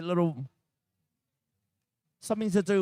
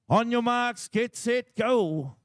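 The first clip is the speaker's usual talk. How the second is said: raised, higher starting call; announcer's on-your-marks call; race starter's call; 5 semitones higher, slower than usual. Real, not acted. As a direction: call the start to the whole shed. Starting the competition heat.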